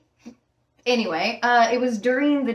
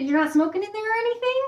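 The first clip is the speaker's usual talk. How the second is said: suspicious question; 10 semitones higher, faster than usual. Retold or imitated. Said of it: "I'm like".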